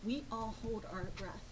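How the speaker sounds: quiet grave confession. Retold or imitated. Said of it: "And he said".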